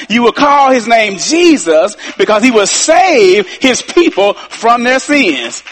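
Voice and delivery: slow it down and lean on save and people; slow, weighty retelling. Shown as a demonstration. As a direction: spell out every word as if it is the key to everything. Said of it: "I need to say that one more time".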